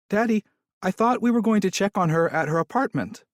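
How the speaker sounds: put-on high, young child's voice; little girl voice. A narrator's reading. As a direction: speak like a small puzzled girl. Little daughter speaks in car.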